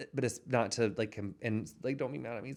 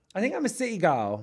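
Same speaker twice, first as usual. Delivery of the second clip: terrible fake British accent, high and loud; 9 semitones higher, 6 dB louder than usual. Answering a question about where she'd rather go, in a terrible British accent. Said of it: "a city girl with a terrible British accent".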